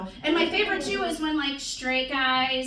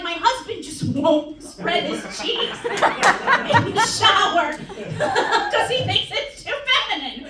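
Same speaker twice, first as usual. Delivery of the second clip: quoting while giggling; cracking up mid quote; wives' complaint through laughter; laughing through quote; 5 semitones higher, 5 dB louder than usual. Retold or imitated. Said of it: "they're like".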